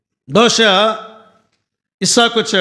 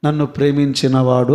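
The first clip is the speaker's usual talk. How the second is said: a lightly lowered, reverent God voice; 7 semitones lower than usual. Retold or imitated. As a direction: speak as God, grave and low. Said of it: "అన్నాడండి దేవుడు".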